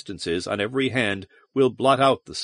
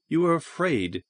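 contemptuous snap; 5 semitones higher, 4 dB quieter than usual. A narrator's reading. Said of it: "she snapped contemptuously".

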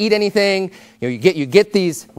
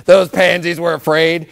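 mocking scoffer; slower than usual. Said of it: "before you wanna be like".

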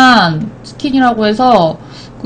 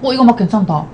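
chewing while talking; talking around food; mouth full. Real, not acted. Seen 1: Woman puts spoonfuls of rice in mouth, chews between words.

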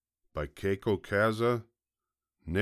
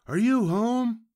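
high, loud holler through a door; yelled call; 7 dB louder than usual. A narrator's reading. Visitor outside asking who is home, yelling high. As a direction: call out brightly pitched and loud. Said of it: "someone yelled from outside".

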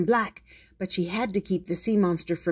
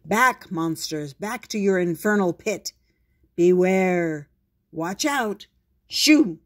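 hero catchphrases; 5 dB louder than usual. Acted. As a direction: declare it like a caped hero. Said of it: "tried out some catchphrases".

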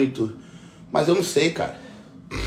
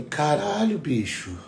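1 retold amazement; 5 dB quieter, slower than usual. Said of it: "Eu falei assim".

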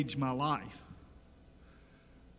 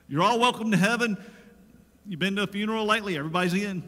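mock-cheery, louder and higher, fast toward the end; mock welcome; 4 semitones higher, 5 dB louder, much faster than usual. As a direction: parody an easy crowd-pleasing preacher. Mocking lax gospel message.

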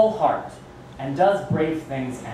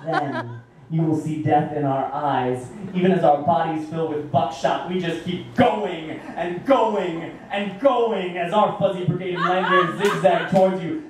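Bunnicula; 3 semitones higher than usual. Acted. Persona poem resumes.

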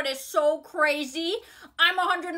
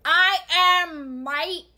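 put-on Australian accent; much slower than usual. Girl insists she is Australian, faking the Australian accent. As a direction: fake Australian twang. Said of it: "Where'd your accent go?".

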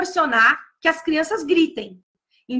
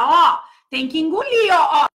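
playful coaching; 3 dB louder than usual. Shown as a demonstration. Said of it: "Eu posso falar pra criança".

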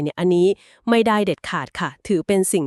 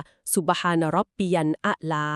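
quiet recited praise; 3 semitones lower, 4 dB quieter than usual. Shown as a demonstration. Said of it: "ก็กล่าวคำสรรเสริญว่า".

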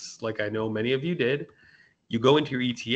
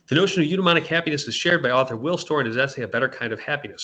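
fast, loud read-through of the sentence; reading aloud; 3 semitones higher, 5 dB louder, faster than usual. Shown as a demonstration. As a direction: rattle off the written sentence. Reading her essay text aloud.

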